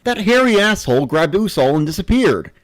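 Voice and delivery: pissed off. Acted. Player furious the monster took Usul, loud and indignant. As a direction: spit out the insult in outrage. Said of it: "so this pisses me off".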